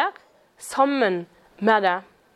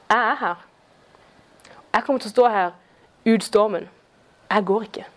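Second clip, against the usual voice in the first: calm Jesus; 4 semitones lower than usual. Retold or imitated. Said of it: "Jesus dønn rolig".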